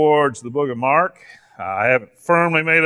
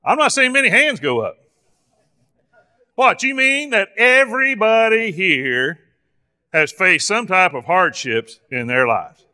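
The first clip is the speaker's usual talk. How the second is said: mock surprise in a higher voice; sarcastic; 4 semitones higher than usual. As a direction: feign disbelief at the congregation. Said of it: "I'm being sarcastic".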